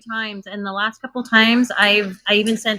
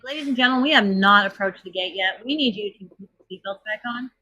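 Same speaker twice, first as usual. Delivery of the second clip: firm cabin announcement; flight attendant. Retold or imitated. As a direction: tell passengers to stay buckled. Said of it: "And I'm like".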